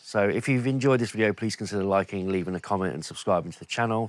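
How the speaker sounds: blocked nose, nasal voice; talking through a head cold. Real, not acted. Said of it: "Sorry about the cold and the nasally, nasally voice".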